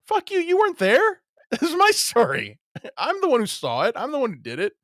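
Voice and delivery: hammed-up defiant yell, laughing; mock defiant shout. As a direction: bluster back like a fake witness. Mock reply in analogy.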